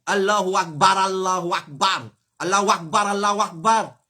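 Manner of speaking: "Allahu Akbar" slurred into a w before Akbar; mispronounced takbir. Shown as a demonstration. Teacher mimicking faulty callers, slurred "Allahu Akbar". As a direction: run "Allahu Akbar" together as Allah-wakbar. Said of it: "pas exister Allahu Akbar".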